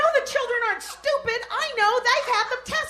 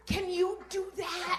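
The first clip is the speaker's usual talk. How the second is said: put-on baby's innocent question; 3 semitones lower, 11 dB quieter, slower than usual. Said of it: "the baby looked at me and said".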